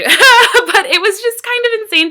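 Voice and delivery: real laugh breaking through the words. Real, not acted. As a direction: laugh it off, a bit embarrassed. Laughing at her own reaction.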